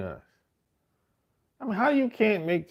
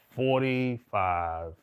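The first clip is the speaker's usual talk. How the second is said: ordinary talk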